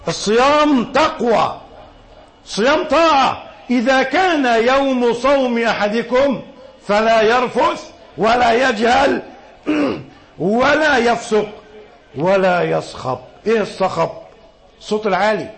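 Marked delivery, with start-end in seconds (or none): 3.7-13.2 slow, chanted classical recitation; measured hadith recitation. Acted. Preacher recites the hadith to the congregation, slow and chanted. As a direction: intone the Prophet's words with slow reverence.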